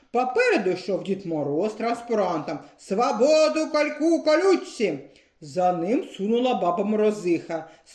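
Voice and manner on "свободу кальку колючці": вище й повільно, як протестне гасло; скандує гасло з транспаранта; гасло на мітингу. A narrator's reading. Дід Мороз з транспарантом. (вище, повільно, як гасло)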